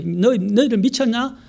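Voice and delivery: high-pitched retold taunt; mocking scoffers. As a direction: imitate people ridiculing believers. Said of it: "사람들이 조롱한다는 거예요".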